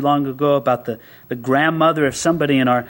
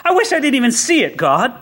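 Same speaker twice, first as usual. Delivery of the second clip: raised, urgent complaint to God; outraged plea to God; 6 semitones higher than usual. Retold or imitated. Prophet protesting to God about what he sees, raised and urgent. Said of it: "It's like".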